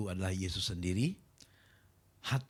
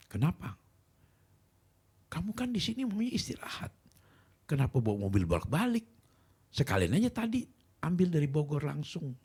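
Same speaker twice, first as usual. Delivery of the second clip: retold scolding, pitch jumping high; raised-pitch mock nagging; angry wife; 8 semitones higher than usual. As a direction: imitate an exasperated wife telling you off. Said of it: "istri saya ngamuk, marah".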